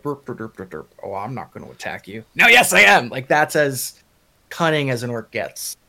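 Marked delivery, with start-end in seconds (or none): 0.0-0.9 mock orc burps. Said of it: "an orc would go like". 1.0-3.1 guttural rough orc roar. Retold or imitated. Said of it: "an orc would go like".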